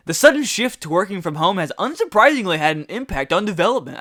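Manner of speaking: reading in a nerdy voice; nerd voice. Acted. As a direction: read it like a nerd. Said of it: "I don't know why I'm giving it this nerd voice".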